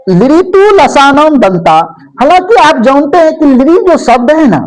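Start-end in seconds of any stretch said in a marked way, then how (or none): 0.1-1.8 a little slower than normal talk; plain teacher restating the rule; slightly slow repeat. Shown as a demonstration. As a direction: repeat लृतु लसानम दंता at an easier, flowing pace. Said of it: "अब चौथा सूत्र आइए".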